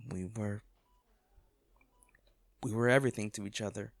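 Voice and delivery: whispering to the unconscious bodyguard. Acted. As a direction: voice drops to a whisper. Tender memory at bedside.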